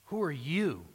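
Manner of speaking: "you" stretched out after a light "who are"; pointed question landing on "you"; stress on YOU. Shown as a demonstration. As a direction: put the weight on "you", accusingly. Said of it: "see, the emphasis, um, there is on the word you".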